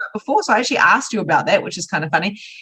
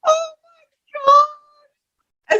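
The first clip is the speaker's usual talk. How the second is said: very high, slow, drawn out through laughter; real laughter, overcome; laughing; much slower than usual. Real, not acted. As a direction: stretch it out in a laughing wail. Listener cracking up.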